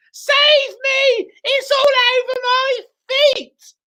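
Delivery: high panicked shriek; screaming. Acted. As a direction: wail in terror. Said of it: "screamed Missus Twit".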